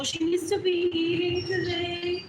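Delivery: mocking slow wail. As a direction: whine it like gossiping people. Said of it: "crying to people".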